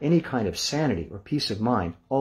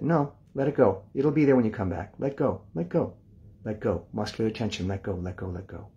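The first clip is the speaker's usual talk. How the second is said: soothing inner voice. Retold or imitated. His calm side talking the worried side down, soothing and fading. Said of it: "The expansive part of me said".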